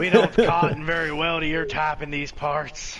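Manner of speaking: hammed-up redneck accent, laughing; badly faked redneck drawl. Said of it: "really bad redneck accent".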